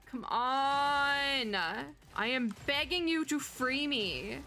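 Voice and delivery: hammed-up plea to the game; mock pleading. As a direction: beg dramatically to be set free.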